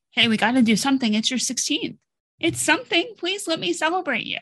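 high, pleading voice, retelling herself; imploring parent. Retold or imitated. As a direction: beg your teen to let you celebrate, pitch climbing. Pleading with teen child to celebrate.

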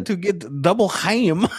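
high, drawn-out comic imitation through laughter; mimicked performer. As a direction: stretch it out high, nearly laughing.

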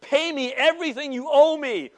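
loud, high, furious demand; throttling demand. Retold or imitated. Servant choking the small debtor, furious. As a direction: grab him and bark it. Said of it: "takes him by the throat".

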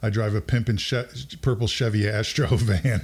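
put-on laid-back college kid introducing himself; calm, easygoing. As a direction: lightly imitate a mellow, cool guy. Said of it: "real kinda calm and easygoing".

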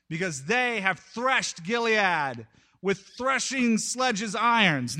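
slow, weighty declaration; prophetic proclamation. Retold or imitated. Amos opening his oracle to the crowd, proclaiming slowly. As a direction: proclaim it with drawn-out emphasis. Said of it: "And Amos starts in chapter one".

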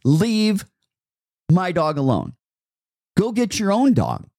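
mock protective dog owner; defensive attitude. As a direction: warn off a stranger from your dog. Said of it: "because of this attitude".

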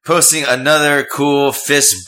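loud, high, slow announcement; announcer voice. Acted. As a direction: proclaim it like a host. Announcing shout-out.

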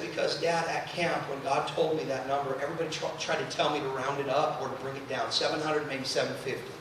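low, very soft retelling of a daughter's words; hushed confiding. Retold or imitated. Daughter explains to her dad after weeping, hushed and confiding. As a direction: confide it softly, voice dropped low.

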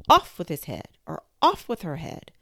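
loud barked order; furious shout. A narrator's reading. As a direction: yell the sentence. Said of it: "the Queen never stopped quarreling and shouting".

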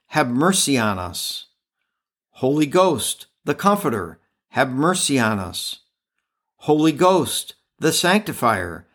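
steady prayer cadence, each response falling; spoken litany. Acted. Host leads listeners in the litany, steady prayerful cadence. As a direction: lead the litany like a prayer at Mass.

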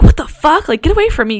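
alarmed cry, retold; retold panic. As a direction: push them away in a rush of fright. Entities flying at her.

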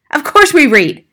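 loud, high-pitched retort; indignant father. Acted. Father answering teacher about reading, indignant.

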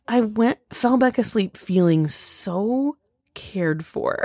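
slow, tender quoting. Retold or imitated. Husband saying he felt cared for, slow and tender. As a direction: stretch it out, touched. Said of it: "he goes".

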